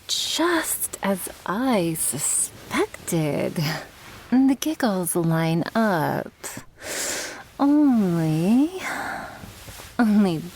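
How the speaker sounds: mock-clinical. Mock scientist while tickling partner.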